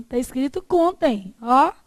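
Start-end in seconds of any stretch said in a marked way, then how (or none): 0.6-1.3 contém said as CON-tem; stress on the first syllable. Shown as a demonstration. Teacher correcting a misreading, contém stressed on CON. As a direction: hit CON in contém, let tem fall. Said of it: "Isso aqui é contém do verbo contar".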